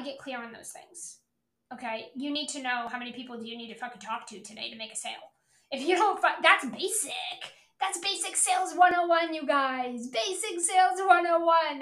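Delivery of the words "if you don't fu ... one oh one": loud, high exasperated rant; frustrated shout. Real, not acted. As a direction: yell it in disbelief. Ranting at listeners.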